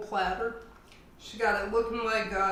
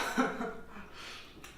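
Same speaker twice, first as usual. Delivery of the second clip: airless relieved laugh; quiet breathy chuckle; 5 dB quieter than usual. Real, not acted. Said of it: "Almost choked that time".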